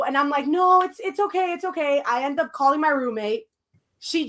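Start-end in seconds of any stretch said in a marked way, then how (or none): 0.5-2.0 retold reassurance. Retold reassuring of panicking friend.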